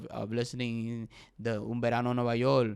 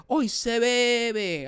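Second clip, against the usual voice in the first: mock party shout; 8 semitones higher, 5 dB louder, much slower than usual. Quotes singer's shout.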